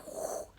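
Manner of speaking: blown-out "whew" of air; breathy imitation of a rushing gust; whoosh. Imitates anger rushing in like tornado.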